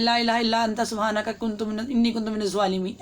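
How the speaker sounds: fast, run-together recitation of the verse; the wrong way, hurried and slurred; rushed recitation. Shown as a demonstration. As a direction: gabble it quickly the careless way. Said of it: "ऐसे नहीं पढ़ना".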